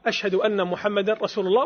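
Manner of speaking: a fuller voice after the soft take. Shown as a demonstration. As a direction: say it out plainly to the room. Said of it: "ثم يرفع". (بصوت مرتفع)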